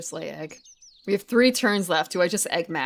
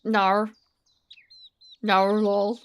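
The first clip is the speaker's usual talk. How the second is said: mock Aussie "nah lol" with an R; lightly put-on Australian "nar"; Australian accent; much slower than usual. Streamer testing how Australians say nah lol, mock Aussie accent. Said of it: "when Australians say".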